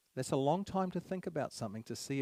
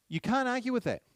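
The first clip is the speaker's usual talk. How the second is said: much higher and louder, hammering it home; emphatic outburst; 10 semitones higher, 6 dB louder than usual. Real, not acted. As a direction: throw it at the room, no argument allowed. Lecturer repeats point, much louder.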